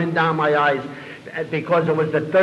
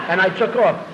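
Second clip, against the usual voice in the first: laughing; 4 semitones higher, 3 dB louder than usual. Real, not acted. Laughing at own story.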